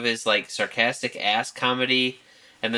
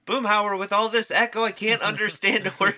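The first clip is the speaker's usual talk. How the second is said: Hank yelling up; 10 semitones higher than usual. Retold or imitated. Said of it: "And Hank just yells up".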